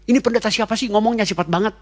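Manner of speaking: annoyed transcriber. Retold or imitated. Retelling the transcriber's complaint about his speed, mock whine. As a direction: whine about the fast preacher, half-laughing.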